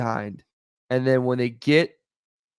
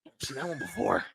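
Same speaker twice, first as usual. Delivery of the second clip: mock amazement. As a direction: play a stunned defender who just got beaten. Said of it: "and he was like".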